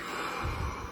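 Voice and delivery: slow airy exhale to calm down; deep release sigh; long breathing-out sigh. Shown as a demonstration. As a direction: breathe out the tension. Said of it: "I start to breathe".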